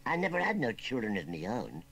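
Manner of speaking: understated rustic mournfulness; a touch of sorrow in the old country voice; mournful. Acted. Childless old uncle confiding in his nephew, mildly mournful. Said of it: "went on Wurzel Gummidge mournfully".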